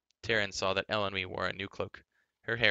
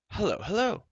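loud, much higher cheery greeting; hearty cry; 12 semitones higher, 7 dB louder than usual. A narrator's reading. Prince Run bursting into the chamber, a loud cheery hail. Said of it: "cried Prince Run".

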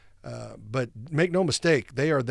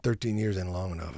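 dramatic movie line; 6 semitones lower, 4 dB quieter than usual. Retold or imitated. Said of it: "dramatic acting chops".

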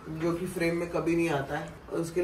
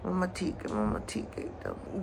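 tender reassurance to pet; 6 dB quieter than usual. Real, not acted. Reassuring her dog tenderly.

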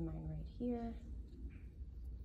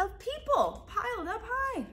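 laughing; 7 dB louder than usual. A narrator's reading. Laughing at people pile.

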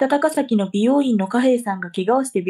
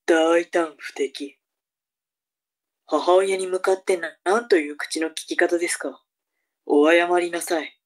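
low, slow stern mother; stern scolding mother; 7 semitones lower than usual. Acted. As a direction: scold her slowly and coldly.

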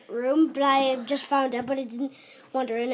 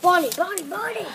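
calling out; 5 semitones higher, 8 dB louder than usual. Acted. Calling out to Bonnie.

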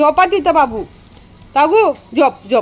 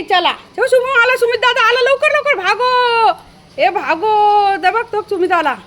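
excited urging; 9 semitones higher, slower than usual. Real, not acted. Urging dogs to run, laughing.

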